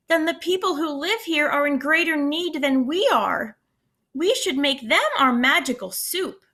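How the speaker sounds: lively read-aloud storytelling voice; expressive picture-book reading; story narration. A narrator's reading. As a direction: read it to a class of kids.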